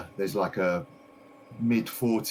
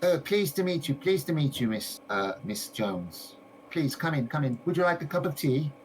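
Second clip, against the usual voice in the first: higher, eager shopkeeper voice; gushing shopkeeper lady; 7 semitones higher than usual. Acted. A game master voicing the shopkeeper greeting a visitor, high and eager. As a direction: play the delighted lady greeting her customer.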